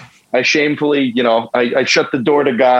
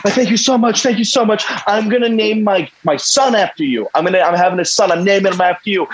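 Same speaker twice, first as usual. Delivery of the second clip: mock hysterical crying; 5 semitones higher than usual. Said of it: "he's crying hysterically".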